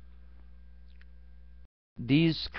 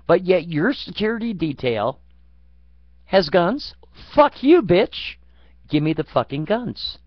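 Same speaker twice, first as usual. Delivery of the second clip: furious demand; 4 semitones higher, 4 dB louder than usual. Retold or imitated. Demanding the politician's guns, loud furious yell.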